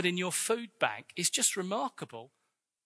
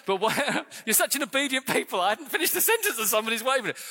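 laughing; 4 semitones higher, 3 dB louder, faster than usual. Real, not acted. Congregation waved too early.

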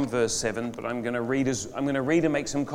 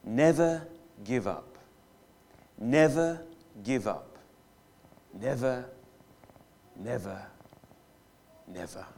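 slow rallying words, dying away to near silence; Churchill speech. Retold or imitated. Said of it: "He said".

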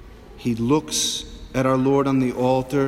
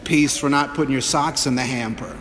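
scolding mock peace. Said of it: "bopping your kid on the top of the head".

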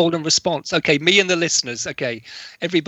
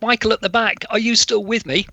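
teacher calling out; 6 semitones higher than usual. Retold or imitated. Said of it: "rather than say".

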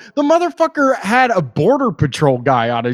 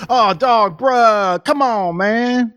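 higher, mock young bro voice; imitating his teenage self; 6 semitones higher, slower than usual. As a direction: ham up a nineteen-year-old bro. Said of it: "I talked like that too when I was nineteen".

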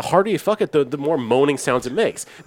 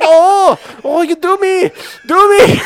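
put-on little girl voice; 14 semitones higher, 8 dB louder, slower than usual. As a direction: imitate a tiny anime girl, hammed up. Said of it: "it's a little Chinese girl's voice".

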